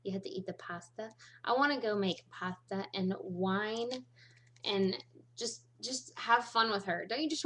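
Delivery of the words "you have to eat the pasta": imitating Giada. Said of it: "Or she says it".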